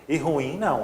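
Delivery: usual speaking voice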